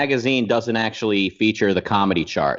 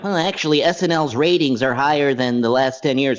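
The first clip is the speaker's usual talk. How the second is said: mock well-actually; 4 semitones higher than usual. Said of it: "someone's gonna bring up".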